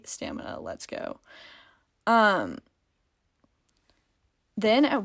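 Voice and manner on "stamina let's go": hushed impressed whisper. Retold or imitated. Cheering on the singer.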